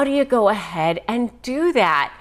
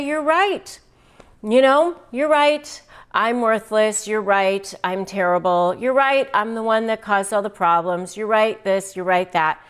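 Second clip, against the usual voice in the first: agreeable concession. Shown as a demonstration. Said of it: "So you just say".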